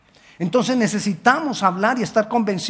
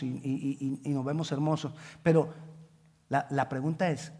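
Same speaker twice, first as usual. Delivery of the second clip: hushed searching question; 5 semitones lower, 8 dB quieter than usual. Acted.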